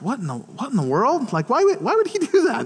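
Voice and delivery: baffled. Retold or imitated. Retold bafflement at hang-up.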